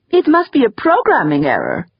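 whiny falsetto, nasal mockery; mock a nasal colleague in falsetto; Wexler's nasal whine. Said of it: "he whined in falsetto, mimicking Wexler's penetrating nasality".

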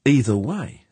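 high, loud character voice, convinced; growing conviction. A narrator's reading. Spaceman concludes there is a spy, growing conviction. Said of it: "said George with growing conviction".

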